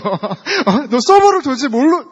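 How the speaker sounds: high-pitched indignant mock scolding; mock nagging. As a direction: playfully launch into a parent's telling-off. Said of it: "이렇게 막 잔소리를". (잔소리하듯 발끈한 척)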